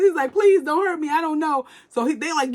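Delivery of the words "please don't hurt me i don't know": imitating a scared boy, high-pitched; mock-frightened begging; pleading boy. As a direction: act out a higher-voiced plea for mercy. Boy pleads when threatened.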